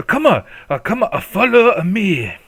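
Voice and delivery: put-on old grandmother. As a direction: wave the customers along.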